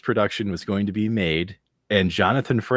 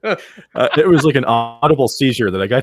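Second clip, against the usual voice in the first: laughing; 3 semitones higher, 4 dB louder than usual. Real, not acted. Laughing while teasing the accent.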